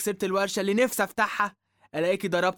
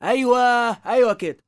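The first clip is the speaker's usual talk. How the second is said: triumphant aha; 6 semitones higher, 5 dB louder, slower than usual. Acted. Son catches mother's real motive.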